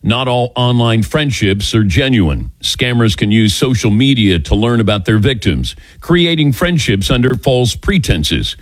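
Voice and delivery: steady, scripted radio ad delivery; ad read. Acted. Host warning listeners about online scammers, ad read. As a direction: read it as a sponsor spot. Reads a sponsor's advertisement.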